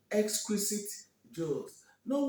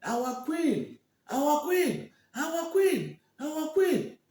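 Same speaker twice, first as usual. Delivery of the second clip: rising, louder chant; crowd cheering; 9 semitones higher, 6 dB louder, much slower than usual. Acted. The crowd hailing Olama as their new queen. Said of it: "Everybody started shouting".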